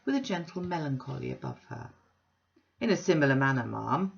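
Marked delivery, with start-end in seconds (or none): 2.8-4.1 a loud, bluff self-made man; blustering Bounderby. Acted. Bounderby booming an invitation to Mrs Sparsit. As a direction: boom the invitation like a braggart host.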